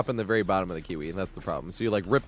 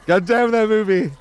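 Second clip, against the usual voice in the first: mock exasperated; 9 semitones higher, 7 dB louder than usual. Real, not acted. Exasperated about stuck song.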